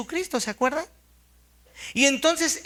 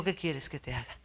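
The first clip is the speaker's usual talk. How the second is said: gentle question; 8 semitones lower, 10 dB quieter than usual. Retold or imitated. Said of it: "Él dijo".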